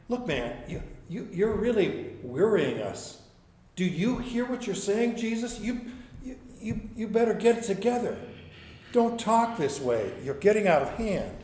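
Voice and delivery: a worried friend begging him to stop; a touch of voiced Peter, anxious and pushy; Peter pleading.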